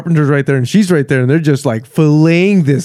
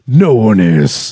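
low, slow villain punchline; Syndrome; 6 semitones lower, slower than usual. Acted. Co-host quoting a cartoon villain's line, slow low Syndrome voice. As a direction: stretch it out with villainous relish. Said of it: "Syndrome in The Incredibles says".

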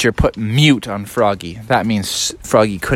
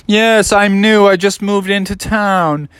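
disguised newcomer; 6 semitones higher, 4 dB louder than usual. Acted. Froggy in disguise as Pierre.

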